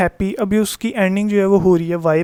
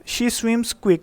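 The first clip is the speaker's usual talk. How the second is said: slow example read; 4 semitones higher, much slower than usual. Shown as a demonstration. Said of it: "अच्छा".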